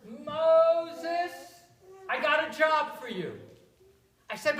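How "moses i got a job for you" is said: loud calling voice, a touch higher; God calling out. Acted. God calls Moses from the burning bush, loud. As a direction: call out to Moses from the fire.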